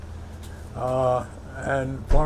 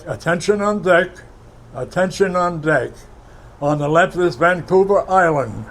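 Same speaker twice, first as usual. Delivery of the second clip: announcement called out; 3 semitones higher, 3 dB louder than usual. Retold or imitated.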